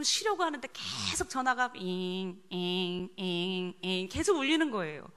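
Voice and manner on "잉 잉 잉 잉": droning "잉" like a vibrating phone; imitated phone buzzing. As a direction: buzz out a ringing phone, over and over. (휴대폰 진동음 흉내)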